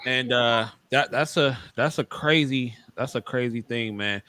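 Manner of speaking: talking between bites of food; chewing chicken while talking; eating crunchy fried chicken. Real, not acted. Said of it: "excuse me for eating chicken".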